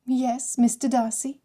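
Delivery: playful, tilted up at the start; teasing. A narrator's reading. Bride teasing her new husband, playful lilt. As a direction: tease him lightly with his own name. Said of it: "she teased".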